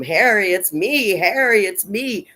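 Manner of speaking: calling to the dog. Retold or imitated. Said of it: "George is trying to tell him".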